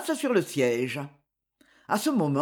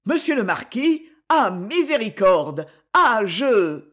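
alarmed pleading; 2 semitones higher, 4 dB louder than usual. Acted. Seized man begs for mercy.

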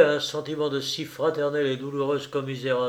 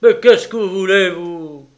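gruff; 5 semitones higher, 11 dB louder than usual. Acted. Gruff officer questions peasant woman.

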